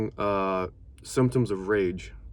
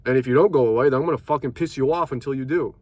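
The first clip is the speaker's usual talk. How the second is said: angry; 3 semitones higher, 5 dB louder, faster than usual. Real, not acted. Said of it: "what just happened right there".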